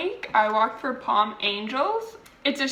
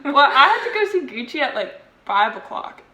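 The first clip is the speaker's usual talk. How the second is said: laughing; 3 semitones higher, 5 dB louder than usual. Real, not acted. Laughing reply, faster.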